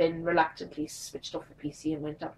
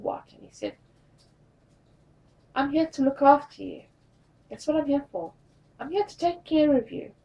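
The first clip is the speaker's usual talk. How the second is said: tender care; 7 semitones higher than usual. Retold or imitated. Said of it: "he said it with such emotion and such care".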